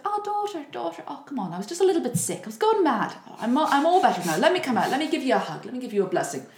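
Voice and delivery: high, pleading, hammed-up wheedle; wheedling mother. Wicked mother begging her daughter at the dungeon, high wheedling. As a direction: coax sweetly like a false mother. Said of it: "begging and wheedling and praying".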